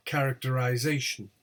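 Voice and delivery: CHARACTERIZATION with lighter CHAR, main ZA; secondary stress. Shown as a demonstration. Teacher showing secondary stress at beginning, CHAR then ZA. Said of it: "secondary word stress at the beginning".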